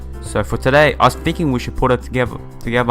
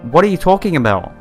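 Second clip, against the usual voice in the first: acted disbelief; 6 semitones higher, 3 dB louder than usual. Reads hero's reply to shock news.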